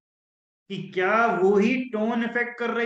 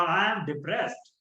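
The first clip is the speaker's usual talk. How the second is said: slow smiling; much slower than usual. Shown as a demonstration. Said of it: "यूं तन के smile करते हुए".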